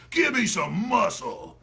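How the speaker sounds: imitating her slow order; drawn-out mocking order; slow mocking bark of an order; slow mock command. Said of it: "And she goes".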